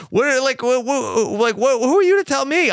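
rising into a loud, offended rant; indignant outburst. Retold or imitated. Harvey snapping at Gretchen, loud indignant outburst. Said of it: "I kinda expected Harvey to be like".

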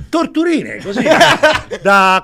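high, laughing through the word. Real, not acted. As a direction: giggle while saying it. Laughs while telling the prank.

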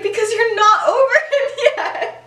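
high, loud teasing through a laugh; Lily teasing Remus and cracking up; laughing tease. Retold or imitated. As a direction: giggle it out as a tease.

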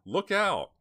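very high, very loud warning; screaming. A narrator's reading. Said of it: "screamed Dina".

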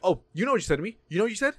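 a hint of indignant scolding; lightly voiced accusing administrator. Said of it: "She's like".

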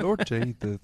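Southern preacher voice. Retold or imitated. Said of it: "it's West Virginia pastor".

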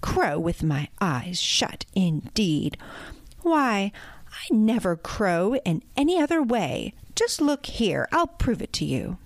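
offended rooster, lightly voiced; bristling anger. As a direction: huff at the insult and prove it. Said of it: "bristling with anger".

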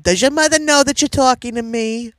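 loud, high shrill-free Jewish mother; nagging Jewish mother at full volume. Retold or imitated. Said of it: "do the Jewish mother first".

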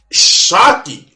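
loud, sarcastic fake astonishment; sarcastic mock shock. Creator mocking viewers who expect everything made for them, sarcastic. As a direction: hit it hard with pretend amazement.

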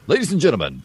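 booming ring announcer intro; fighting game announcer. Pretend. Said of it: "announcer voice".

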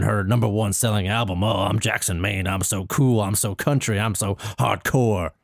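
a lightly dropped mock of the husband; hint of a drawling country husband; mocking Jackson's voice. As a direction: parody him as a cocky country star. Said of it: "Oh, let me do your voice".

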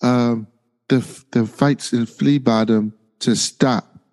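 slow mock foreign accent; measured villain-like put-on accent; Mysaria's bad accent. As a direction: imitate a bad accent, haltingly. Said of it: "it's a bad accent".

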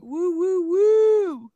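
high, loud whooping cheer; excited cheer. Real, not acted. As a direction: whoop like you just won. Celebrating beating the game.

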